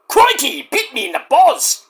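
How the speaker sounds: put-on high, lively Australian accent in the style of the Crocodile Hunter. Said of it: "the Crocodile Hunter".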